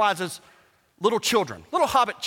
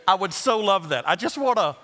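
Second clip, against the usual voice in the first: laughing; 3 semitones lower than usual. Real, not acted. Laughing about the weenie dream.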